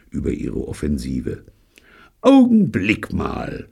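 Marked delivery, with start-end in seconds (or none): 2.2-3.7 abrupt alarm, much higher and slow; sudden high alarmed call, drawn out. A narrator's reading. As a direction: stop everyone short. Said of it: "sagte Pycraft plötzlich".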